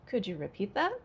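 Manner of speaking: "that" lifts sharply at the end; rising yes-no question. Shown as a demonstration. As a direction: ask "Could you repeat that" with rising intonation. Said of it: "Yes, no question with rising".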